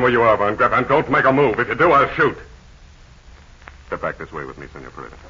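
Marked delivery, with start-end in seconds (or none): 3.9-5.2 soft low urgent warning; hushed. Acted. Captain hushing his companion while hiding. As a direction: keep it down so he cannot hear.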